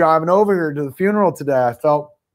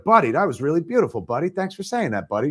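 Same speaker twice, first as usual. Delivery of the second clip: lightly imitated buddy-buddy patter, quick and higher; light impression of a chummy thank-you; Sam Raimi; 3 semitones higher, 3 dB quieter than usual. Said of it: "That's how he talked".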